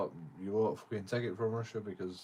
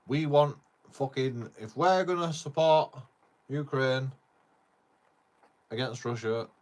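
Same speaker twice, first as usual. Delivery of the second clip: loud, slow, greedy demand; mock Trump demand; 7 dB louder, slower than usual. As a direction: lean on each word like a pushy dealmaker. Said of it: "even Donald Trump said it".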